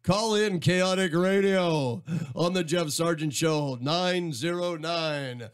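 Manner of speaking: slow, drawn-out station announcer delivery; radio voice. Shown as a demonstration. Radio host inviting listeners to call the station, announcer voice. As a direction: give it your radio voice, stretching the phone number. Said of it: "do your radio voice".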